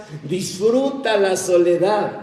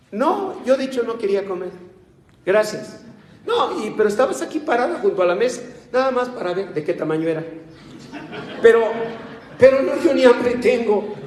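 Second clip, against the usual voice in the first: mock offended guest; 5 semitones higher, faster than usual. Mimicking a slighted guest.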